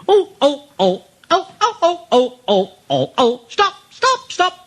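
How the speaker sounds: high squealing truck voices crying stop; high frantic wail of stop; panicky trucks. A narrator's reading. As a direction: shriek like scared trucks. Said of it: "They went".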